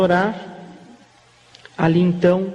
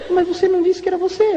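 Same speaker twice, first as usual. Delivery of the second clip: much higher, surprised, with a laugh; startled question; 10 semitones higher than usual. Retold or imitated. Old pastor startled that the young man hid who he was. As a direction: ask it caught off guard, pitch jumping up. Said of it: "Ele olhou assustado pra mim".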